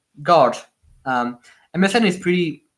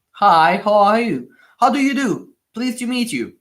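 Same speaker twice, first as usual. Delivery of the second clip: put-on heavy French accent; 3 semitones higher, 3 dB louder than usual. Imitating his younger self greeting a Swiss Lego fan, heavy French accent. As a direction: recite the greetings like a French schoolboy on his first Skype call. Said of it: "with a heavy French accent".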